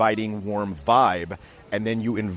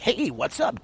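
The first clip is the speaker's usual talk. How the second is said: much higher, rushed hey from behind; rushed over-the-shoulder hey; 12 semitones higher, slower than usual. Retold or imitated. A nervous student running up behind someone, rushed and high. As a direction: blurt it out over their shoulder. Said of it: "they'll literally run up behind and be like".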